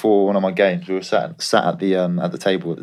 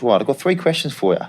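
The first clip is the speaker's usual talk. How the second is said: put-on breezy Australian accent, pitched higher; Australian agent voice; 6 semitones higher than usual. Player's Australian agent ringing him, higher Australian accent. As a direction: imitate your Aussie agent greeting you, light Australian twang. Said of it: "he's Australian".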